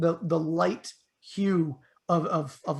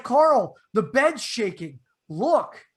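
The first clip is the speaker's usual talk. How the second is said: higher, louder urgent call; urgent alarm; 4 semitones higher, 6 dB louder, much slower than usual. Retold or imitated. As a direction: get him to look, now. Urgently calling to friend.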